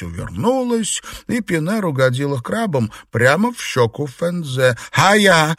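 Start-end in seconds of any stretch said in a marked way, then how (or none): 4.9-5.5 sudden loud high yelp; a startled yelp, higher and louder; startled cry. A narrator's reading. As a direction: cry out as the crab hits. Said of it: "вскрикнула Фэнзе от неожиданности".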